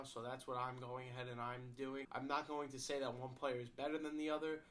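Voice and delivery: stuffy nose from a cold; nasally voice. Real, not acted. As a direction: talk through a blocked nose. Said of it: "sorry for the nasally voice".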